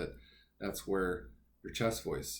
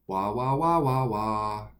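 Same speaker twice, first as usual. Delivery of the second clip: sung wah wah, brighter and louder; twangy wah; 6 dB louder, slower than usual. Shown as a demonstration. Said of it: "if you're familiar with twang".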